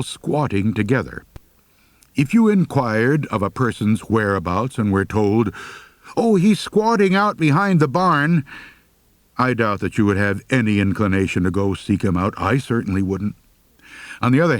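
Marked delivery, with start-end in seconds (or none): 6.1-8.4 lightly voiced informant. Mock informant answering a question.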